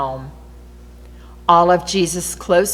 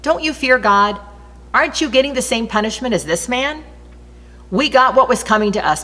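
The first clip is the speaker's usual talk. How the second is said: raised, higher scolding of the other criminal; mild rebuke; 6 semitones higher than usual. A narrator's reading. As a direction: tell him off firmly. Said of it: "told the first one off".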